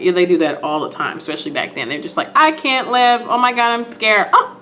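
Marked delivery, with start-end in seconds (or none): 2.4-4.6 higher-pitched retold panic; mock hysterics. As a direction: imitate someone overcome with fright, ending in a gasp. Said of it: "So hysterical".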